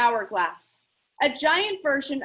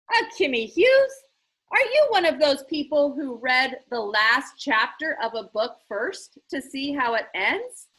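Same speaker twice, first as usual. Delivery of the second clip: a hint of a playful eccentric host; lightly voiced showman; 4 dB louder than usual. Eccentric game host teasing the girl, lightly voiced. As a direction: tease her with a showman's flourish. Lemoncello teasing, theatrical question.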